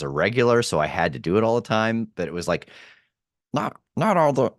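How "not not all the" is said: high-pitched, strained elf voice; Christmas elf. Shown as a demonstration. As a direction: push up into a little elf's voice. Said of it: "a Christmas elf".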